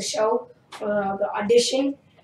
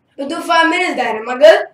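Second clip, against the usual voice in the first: put-on raised, hopeful kid asking dad; retold pleading; 5 semitones higher, 8 dB louder than usual. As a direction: angle loudly to be let off early. Retells pleading with dad to stop.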